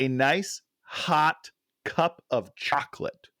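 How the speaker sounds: "a nice hot cup of chocolate" spelled out slowly; quoting the line, slowly. Shown as a demonstration. Quoting the movie line to Dan, slow and deliberate. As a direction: read it out word by word. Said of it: "Let me try that again".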